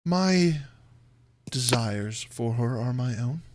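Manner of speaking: measured count, pausing after the first word; guarded, deliberate villain; Strahd deflecting. Acted. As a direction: close the subject with formal reserve. GM as Strahd guards his motive.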